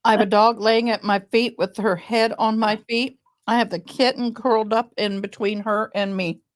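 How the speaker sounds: talking while chewing food; chewing noisily. Real, not acted. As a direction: speak around a mouthful of food. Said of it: "I'm sorry I'm eating".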